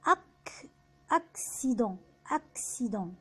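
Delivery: "أكسيدون" split after "أك", then whole; French "أكسيدون", k then s, nasal ending; double C as ks. Shown as a demonstration. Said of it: "بيتنطق إكس".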